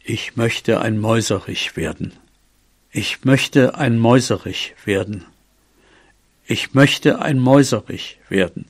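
low-key solemn wish; spell recited three times. A narrator's reading. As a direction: recite it evenly, like a magic rule. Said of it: "sagte dreimal, wie es die Regel".

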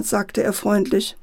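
ordinary delivery

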